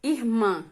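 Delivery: "irmã" with weight on the final "mã"; last-syllable stress. Shown as a demonstration. Teacher giving an oxítona example, "irmã" stressed on the last syllable. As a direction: land firmly on the end of "irmã". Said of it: "Qual é a sílaba tônica? É a última".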